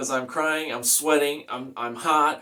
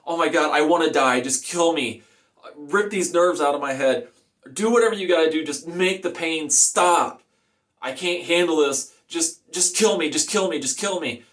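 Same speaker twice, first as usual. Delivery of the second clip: mildly raised, urgent begging; retold screaming plea; 3 semitones higher than usual. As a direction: re-enact desperate pleading without a full scream. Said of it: "the way I was screaming".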